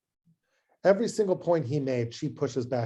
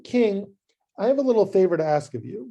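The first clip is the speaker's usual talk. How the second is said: quick, bright, casual favor request; breezy easy ask; 3 semitones higher, 4 dB louder than usual. Acted. Esther lightly asking the king a small favor, breezy. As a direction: toss off the request like it's nothing. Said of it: "It goes like this".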